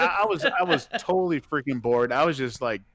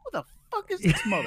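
high, fast yelling outburst; retold furious shout; mock outraged shout; faster than usual. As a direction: yell it, cut off mid-word. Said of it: "I was like".

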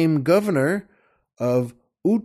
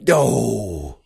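drawn-out falling "doh"; warden's outwitted groan; 4 semitones lower than usual. Acted. Game warden realizing he was tricked, groaning. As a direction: groan it out like someone just fooled. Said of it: "that warden's response was".

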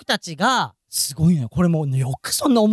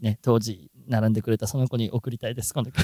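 低く小声でしみじみと; 歌の曲紹介風に神妙に語る; 芝居がかった献呈; 12 semitones lower, 6 dB quieter than usual. Pretend. 歌の後に曲を捧げるふり. (声を落として大げさに浸る)

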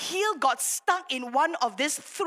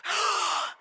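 imitated gasp; 5 semitones higher than usual. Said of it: "They gasp".

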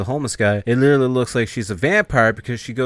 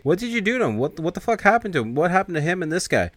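distraught plea; 9 semitones higher than usual. Retold or imitated. Tina distraught holding Freddy.

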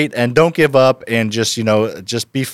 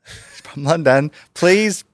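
slow, higher attempt at a UK accent; London accent; 7 semitones higher, slower than usual. Shown as a demonstration. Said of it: "a U K accent".

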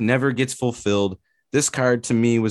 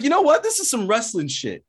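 hyped; 12 semitones higher than usual. Retold or imitated. Hearing Volkanovski's walkout song, high and hyped. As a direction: burst out like a wrestling fan. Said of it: "I was like".

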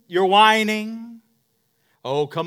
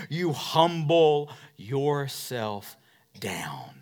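hushed and slow; 4 semitones lower, much slower than usual. Acted. Pastor showing humility to the church, hushed and slow. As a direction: sink the voice down low.

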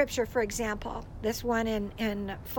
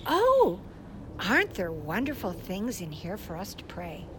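gentle prompt; 5 semitones lower than usual. Shown as a demonstration. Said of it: "this is what I would say".

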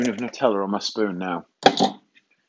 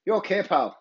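higher-pitched mimicked seller's accent; imitated street seller's accent; 7 semitones higher than usual. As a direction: mimic a stranger's regional accent. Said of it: "That was his accent".

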